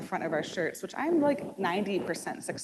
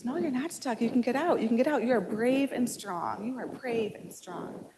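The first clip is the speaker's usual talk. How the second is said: encouraging father; 4 semitones higher than usual. Retold or imitated. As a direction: cheer her on gently, like a patient dad. Father encouraging stuck toddler.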